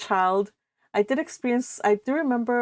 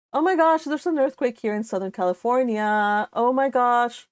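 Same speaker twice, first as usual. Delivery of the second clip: real surprise; 3 semitones higher than usual. Real, not acted. Streamer telling viewers an earthquake just hit, startled. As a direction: caught off guard by the shaking.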